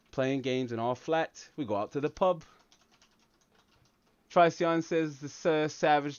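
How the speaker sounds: chatty mock English accent; put-on English accent. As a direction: play the pub-going Londoner with an English accent. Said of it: "talk using an English accent".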